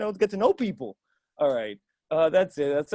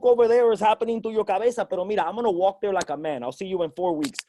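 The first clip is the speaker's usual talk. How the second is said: put-on old-school Spanish dad; 3 semitones higher than usual. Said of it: "every old school Spanish dad".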